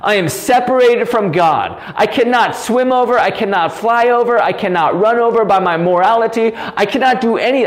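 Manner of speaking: worked up, forceful and insistent; impassioned near-yell. Real, not acted. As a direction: hammer each statement home with rising passion. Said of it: "I don't know why I'm yelling".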